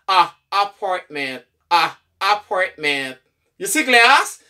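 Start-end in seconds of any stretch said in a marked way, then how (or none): 0.1-3.2 low, slow "apartment" opening on ah; reduced A. Shown as a demonstration. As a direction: isolate "Ah", then slow "apartment" starting on the same sound. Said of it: "son ka chanje an A". ("apartment" dousman, ak son "ah" devan)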